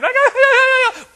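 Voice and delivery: a high, loud shrieking yell; mock scream. Preacher imitates a screaming person in church. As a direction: imitate someone screaming hysterically. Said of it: "they're screaming".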